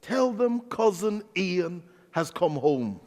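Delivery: slow, innocent asking; innocently. Retold or imitated. Preacher to Irish locals, innocently. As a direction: say it all innocence. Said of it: "And I said innocently".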